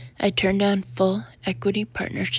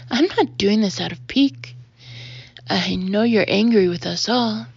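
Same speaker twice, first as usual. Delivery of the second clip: indignant; 4 dB louder than usual. Acted. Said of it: "I wheel around indignantly".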